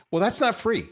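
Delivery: not punched up high, a dry jab; sarcastic not free; wry emphasis. Real, not acted. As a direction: lean on not like it's obvious. Sarcastic aside about moderator costs.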